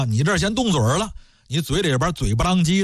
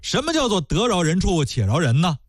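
indignant retort. Acted. Scholar throws the phrase back.

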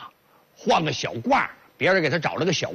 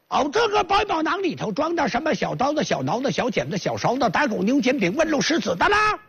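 southern vendor voice; 8 semitones higher than usual. Acted.

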